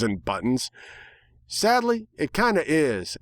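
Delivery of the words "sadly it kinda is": resigned, higher country-mare voice; a weary, resigned answer; sighing. A narrator's reading. Applejack answering Apple Bloom, resigned. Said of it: "responded with a sigh".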